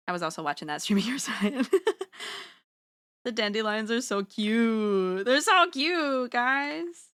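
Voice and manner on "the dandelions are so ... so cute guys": drawn-out, higher gush over cuteness. Real, not acted. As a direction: gush slowly, letting the vowels stretch. Gushing over cute dandelions.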